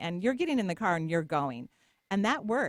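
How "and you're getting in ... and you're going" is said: imitated stern tone. Retelling threatening to take her to the hospital: retelling a stern warning. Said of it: "but I said it very sternly".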